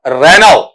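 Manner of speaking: रेनाउ said ending on au with no final lt; correct pronunciation. Shown as a demonstration. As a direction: say रेनाउ with a silent t. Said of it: "रेनॉल्ट नहीं होता है".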